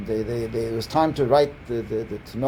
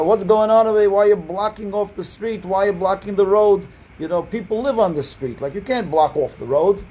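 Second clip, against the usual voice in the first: louder, higher angry neighbor complaint; retold shouting; 6 semitones higher, 3 dB louder than usual. French neighbor yelling at the family blocking his street, loud. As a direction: shout it like an annoyed local. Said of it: "he starts shouting".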